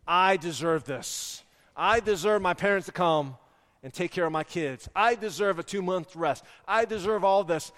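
mildly indignant, stressing each "I"; entitled. Retold or imitated. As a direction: voice your entitlement with firm, measured insistence. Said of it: "Entitlement rose up in me".

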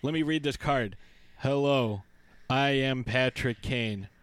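mock flat reading off a card; a hint of reading a cue card stiffly. Mocking the player reading his sleep-video card. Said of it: "He doesn't talk like that".

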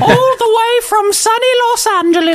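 high, slow showy intro; grand announcer flourish. Acted. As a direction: announce yourself with fanfare.

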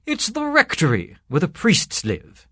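high-pitched genial explanation; grinning priest. A narrator's reading. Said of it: "grinned the priest".

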